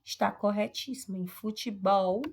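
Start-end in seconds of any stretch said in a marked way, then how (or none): 1.3-2.2 BOL of "futebol" loud and held; stressed final syllable. Shown as a demonstration. Teacher confirming the right answer, BOL in "futebol" stressed. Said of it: "a sílaba tônica é o bol mesmo".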